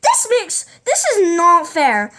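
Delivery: a mild mock outburst at lunch staff; indignant protest. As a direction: insist it is unfair, word by word. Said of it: "And then I'm like".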